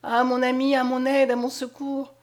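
urgent, high plea; pleading for help. A narrator's reading. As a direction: beg a friend to come to the rescue. Girl begs her friend for help.

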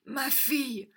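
high, halting anxious questions; broken, breathless voice. A narrator's reading. Father holding his daughter, breathless and halting. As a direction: ask between gasps, clutching her. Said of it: "d'une voix entrecoupée".

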